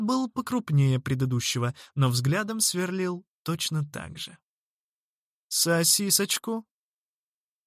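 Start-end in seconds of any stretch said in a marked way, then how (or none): 5.5-6.7 slow, high, picking a fight; challenging offer. A narrator's reading. Second boy offers sausage rolls menacingly. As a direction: offer it like a threat. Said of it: "предложил он таким тоном, будто сказал: «Ну что, драться будем?»".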